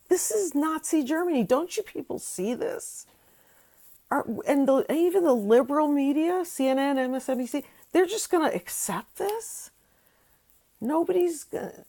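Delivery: high, loud outraged yelling; shouting rant. Real, not acted. Vlogger yells at viewers that this is Nazi Germany. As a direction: climb up and yell at the audience. Rising anger at the liberal media.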